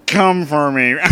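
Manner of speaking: Squidward impression. Squidward urges Dampé on, lightly voiced Squidward. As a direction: seductive line in slight Squidward voice. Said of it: "gotta do my Squidward impression again".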